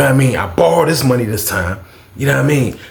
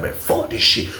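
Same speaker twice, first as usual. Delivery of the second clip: hushed unvoiced muttered curse; 6 dB quieter than usual. Telling his cellmate he's done, muttered under breath. Frustrated aside in retold jail story.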